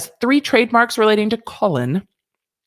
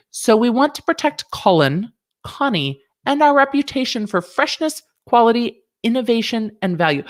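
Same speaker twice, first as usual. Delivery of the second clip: attempted posh accent; 4 semitones higher than usual. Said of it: "I don't know how to do a posh accent".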